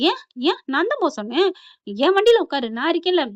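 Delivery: mock retort. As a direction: fire back possessively. Suresh retorts heatedly.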